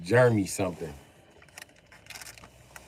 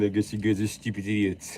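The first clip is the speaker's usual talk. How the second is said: Jeremy Clarkson. Acted. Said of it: "That's who my English accent sound like".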